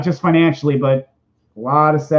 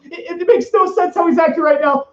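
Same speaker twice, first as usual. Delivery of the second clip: much higher, stammering nervous Morty voice; Morty impression; 12 semitones higher than usual. Streamer does his Morty voice, fretting about a dragon, anxious stammer. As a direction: stutter it out like a frantic, confused teen. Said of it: "an okay impression of Morty".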